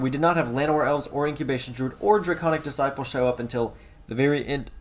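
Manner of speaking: talking through hiccups; hiccuping. Real, not acted. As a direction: speak between small hiccups. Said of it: "I'm hiccuping".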